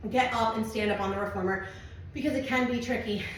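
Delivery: winded, breathy between words; out of breath. Real, not acted. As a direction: talk while catching your breath. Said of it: "I'm out of breath".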